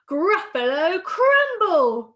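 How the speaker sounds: loud, slow, drawn-out threat; menacing mouse. Acted. Mouse threatens to eat the Gruffalo, menacing.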